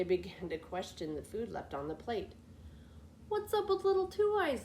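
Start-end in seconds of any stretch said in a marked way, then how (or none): 3.3-4.6 much higher, surprised outburst; exclaiming sisters. A narrator's reading. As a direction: sisters startled and suspicious. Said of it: "they exclaimed".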